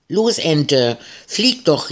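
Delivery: high, eager shout at the duck; urging shout. Acted. Marie urges the tethered duck to take off, high shout. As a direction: cheer the duck on, pitch soaring. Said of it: "rief Marie".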